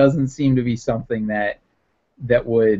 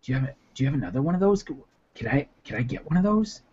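put-on eager old woman; 8 dB quieter, faster than usual. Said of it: "she's like".

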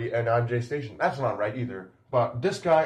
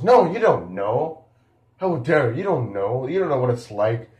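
imitating hurt protest; 2 semitones higher, 5 dB louder than usual. Zilla answering the channel creator, mock hurt outburst.

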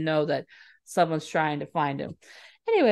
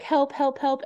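mock screaming; 8 semitones higher than usual. Kidnapped girl calling from the trunk, mock screaming. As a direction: imitate a scream without the volume. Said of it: "she's, like, screaming and yelling".

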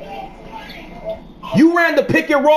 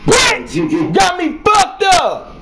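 angry shout; 5 semitones higher, slower than usual. Real, not acted. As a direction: yell it in real frustration. Raging at teammate mid-game.

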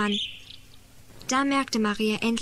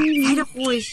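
exasperated scolding; 3 semitones higher, 3 dB louder than usual. Acted. Storyteller breaks off to scold the noisy child, exasperated. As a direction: break off and tell them off.

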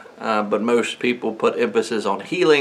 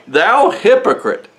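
higher, slow accusing cry; sharp rebuke; 8 semitones higher, 3 dB louder, slower than usual. Retold or imitated. Jesus rebuking the synagogue ruler, high and slow. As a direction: call him out slowly, like a sudden slap.

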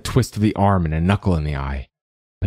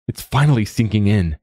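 higher-pitched taunt; mocking; 4 semitones higher, 3 dB louder than usual. A narrator's reading. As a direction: rub it in, mocking him. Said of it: "Quoth mocked".

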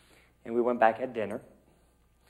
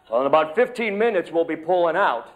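a jolly, louder Santa checking his list; Santa on the phone; 3 semitones higher, 6 dB louder than usual. Pretend. Santa phoning his niece before leaving, bright and official. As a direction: play Santa, busy and official before takeoff. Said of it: "This is Santa".

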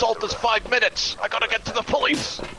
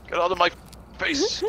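face on a high rise; 2 semitones lower than usual. Shown as a demonstration. Grandpa shoves off his friend, face squeaked up high. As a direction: Get out of my, then face jumps up high.

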